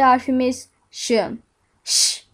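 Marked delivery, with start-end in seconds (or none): 1.8-2.2 Ş as a held hush, "şşş"; letter sound demo. Shown as a demonstration. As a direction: sound out Ş with no vowel. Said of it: "diye okunur". (Ş'yi "şşş" diye uzat)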